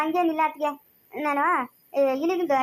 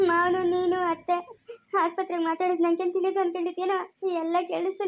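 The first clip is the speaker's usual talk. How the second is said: tearful accusation. Acted. Daughter-in-law accuses in tears.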